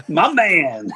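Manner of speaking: loud, high burst through laughter; laughing call-out. Real, not acted. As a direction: crack up while calling out to a pal. Cracking up at a picture.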